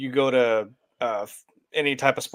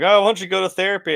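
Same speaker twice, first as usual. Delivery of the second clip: acted-out high, loud jeering yell; 7 semitones higher, 5 dB louder than usual. Retelling someone yelling at a comedian during a comedy set: imitating someone yelling. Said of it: "someone yells like".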